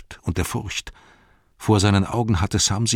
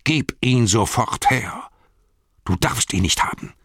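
shouting; 6 semitones higher, 3 dB louder than usual. Acted. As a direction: scream it out, possessed by the ring. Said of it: "schrie er".

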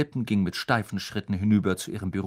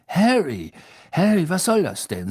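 loud, raised exclamation of indignation; upset Fudge; 6 semitones higher, 6 dB louder than usual. A narrator's reading. Minister finds Harry out of bed, upset. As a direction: scold Harry in agitation. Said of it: "sagte Fudge aufgebracht".

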